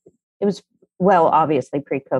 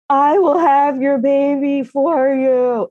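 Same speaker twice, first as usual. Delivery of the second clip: higher, slow, a touch of weepy earnestness; hammed-up heartfelt vow to her daughter; tearful offer; 8 semitones higher, 3 dB louder, slower than usual. Tearful mother offers to carry baby.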